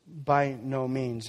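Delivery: By no means, slowed right down, weight on By; emphatic denial. Acted. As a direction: stretch it out, firm and final. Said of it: "it really is emphatic".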